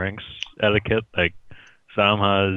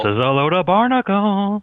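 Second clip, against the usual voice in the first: mock pirate grumble; 10 semitones higher, 5 dB louder than usual. Pirate-ish joke exclamation.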